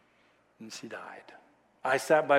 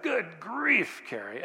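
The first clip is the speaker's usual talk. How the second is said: exasperated snap; 3 dB quieter, slower than usual. Retold or imitated. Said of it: "And I was ticked".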